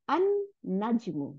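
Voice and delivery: "আন নাজমু" with a long hummed N; doubled N. Shown as a demonstration. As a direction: hold the N in "আন নাজমু", no L sound. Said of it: "নুন দুইটা বানাই".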